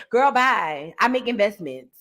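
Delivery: a hint of a low, breezy Fani reply; mock Fani answer.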